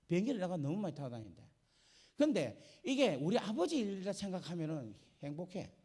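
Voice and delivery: ordinary delivery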